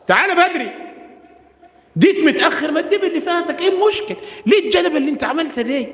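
high, exasperated scolding of a latecomer; mock harsh scolding. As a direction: scold him sharply, pitch climbing. Harsh rebuke the Prophet avoided. (توبيخ ساخر بصوت عالٍ)

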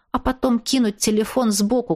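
ordinary delivery

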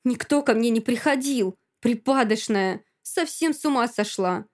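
offended, heated protest; indignant denial. Acted. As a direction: throw the accusation back. Friend denies and insults in quarrel.

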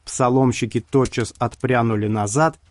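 plain reading voice

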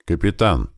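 «Капитан» as a short query; questioning. A narrator's reading. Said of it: "вопросительно спросил Большой у Усатого". («Капитан» вопросительно)

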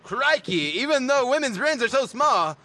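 Aussie slipping toward Canadian; mock Australian drifting Canadian; botched Australian accent. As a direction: exclaim in a badly faked Australian accent. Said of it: "that's Canadian again".

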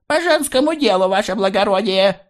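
very high, squeaky frightened reply; frightened mumble. A narrator's reading. Maria answering the officer in a high frightened voice. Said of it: "пробормотала Мария испуганно".

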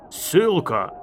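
loud, high one-word verdict; shouted reply. A narrator's reading. Enemy officer answering about the protectress, shouting. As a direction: call the sentence out.

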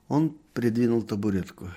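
usual speaking voice

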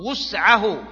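وسعه repeated as "wus'ahu", with a short u; damma on the waw. Shown as a demonstration. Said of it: "بالضم".

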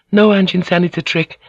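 high, urgent warning; urgent plea. Acted. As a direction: stop him, urgently. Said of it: "she said".

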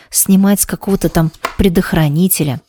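ordinary delivery, nothing marked

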